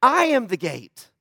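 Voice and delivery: "I am the gate" slow and deliberate; stretched "I", then a falling "the gate"; emphatic repetition. Retold or imitated. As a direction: land "I am the gate" firmly, falling at the end. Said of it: "Then he says it again".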